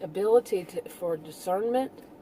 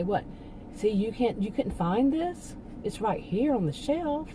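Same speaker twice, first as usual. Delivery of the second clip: mock-sarcastic store manager, rising in pitch. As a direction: needle the customer as if they missed the obvious. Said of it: "they're being really sarcastic".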